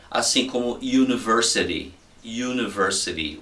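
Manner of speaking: "university" begun with a Y sound, "you-niversity"; english pronunciation of "university". Shown as a demonstration. Teacher modelling "university" for students, careful pronunciation. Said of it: "é som de Y no inglês".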